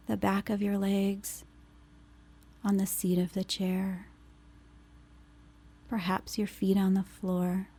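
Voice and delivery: unhurried phrases, leaving space to breathe between them; guided meditation. Acted. Leads grounding meditation after intro.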